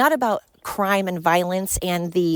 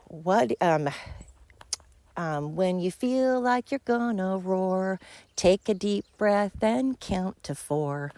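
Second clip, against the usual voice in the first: a hint of soft, slow grandma coaching; gentle advice; 4 dB quieter, slower than usual. Grandmother teaching her grandson to calm down, slow and hushed. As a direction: soothe a child, slow and hushed. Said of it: "I tell my grandson".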